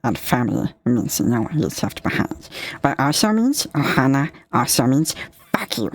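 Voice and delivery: lightly voiced cartoon alien; Stitch. Shown as a demonstration. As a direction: do a little alien creature quoting its motto. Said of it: "I can do Stitch".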